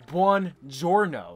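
slow, stretched Italian greeting; hammy Italian accent. Acted. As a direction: draw it out in a mock Italian accent. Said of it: "in this very Italian accent".

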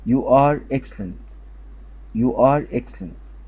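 slow, deliberate teacher modelling; slow model reading. Shown as a demonstration. Teacher modelling an English sentence slowly. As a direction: spell it out slowly for learners.

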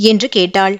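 ordinary delivery

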